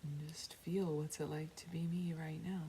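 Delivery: unhurried meditation guide with long pauses; guided meditation. Real, not acted. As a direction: guide them inward, calmly. Leads a meditation.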